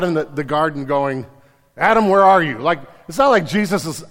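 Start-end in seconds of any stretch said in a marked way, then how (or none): 1.8-2.6 loud searching call, pitched up. Retold or imitated. God calling loudly for Adam in the garden.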